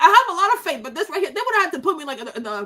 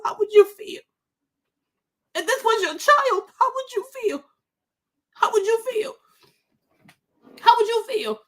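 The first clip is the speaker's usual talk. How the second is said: usual speaking voice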